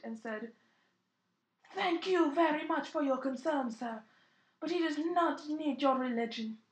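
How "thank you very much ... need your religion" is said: sickly sweet. Acted. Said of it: "her voice was sickly sweet".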